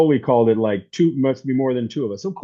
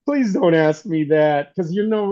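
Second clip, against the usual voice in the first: reluctant plea; 2 semitones higher than usual. Retold or imitated. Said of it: "she says like this".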